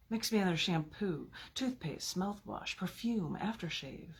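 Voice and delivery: slow, measured reading of a sinister poem; deliberate villain monologue reading. Acted. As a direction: savor each line like a poisoner's boast. Reads second villain persona poem.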